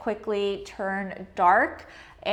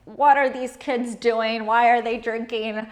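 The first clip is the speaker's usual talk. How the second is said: lightly voiced judgmental grandma; a hint of a scolding grandma, fussing about the kids; 3 dB louder than usual. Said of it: "That is my grandma voice".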